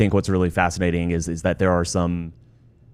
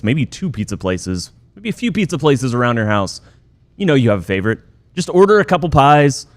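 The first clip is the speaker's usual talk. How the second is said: upbeat sponsor read with lifted openings; 3 semitones higher, 3 dB louder than usual. Acted. Host telling Stars fans the game should be easy, breezy ad read.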